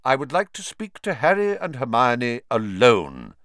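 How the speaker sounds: put-on lightly firm, curt old wizard; abrupt. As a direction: cut them off firmly. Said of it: "said Dumbledore abruptly".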